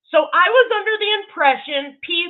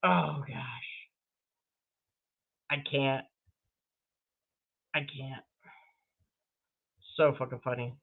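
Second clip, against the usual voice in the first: spent laughter; 11 semitones lower, 9 dB quieter than usual. Real, not acted. Recovering after a laughing fit.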